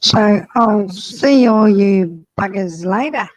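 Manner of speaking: low, mock Australian farewell; Australian accent. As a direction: put on a broad Australian accent. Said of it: "I sound like an Australian".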